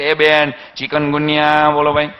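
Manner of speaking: slow, drawn-out street seller's call to a housewife; doctor calling out to a lady from a handcart, slow drawn-out hawker cry; mock hawker cry. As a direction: sing it out like a vegetable cart vendor.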